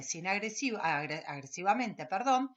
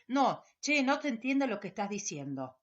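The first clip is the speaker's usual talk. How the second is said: curt, dismissive; 3 dB louder than usual. Retold or imitated. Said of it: "Esa cosa que".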